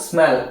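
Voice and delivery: ஸ்மெல் with a brief s straight into "mel"; light, short s. Shown as a demonstration. Teacher repeating the model for students, ஸ்மெல் with light s. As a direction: say ஸ்மெல் as one word, no vowel before the s. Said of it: "இஸ்ஸோட sound லைட்டா இருக்கணும்".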